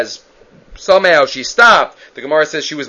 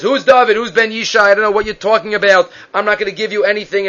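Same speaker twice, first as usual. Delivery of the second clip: mildly gruff, dismissive retelling, pitched up; 4 semitones higher, faster than usual. Retold or imitated. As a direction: brush him off with mock gruff refusal. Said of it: "and he's very gruff".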